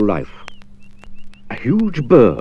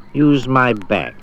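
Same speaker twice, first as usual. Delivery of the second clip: slow, slick crocodile offer; sly suggestion; 2 semitones higher, much slower than usual. Acted. Crocodile luring Jack onto its back, slow and oily. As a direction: drawl the offer like a trap. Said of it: "suggested the crocodile".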